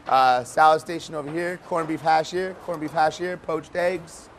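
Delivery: calling from far away. Real, not acted. Chef leading tour through loud kitchen.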